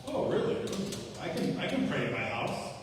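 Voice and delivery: lightly played self-righteous brush-off; prideful, arrogant. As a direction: imitate a proud man brushing off church. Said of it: "Very prideful, arrogant man".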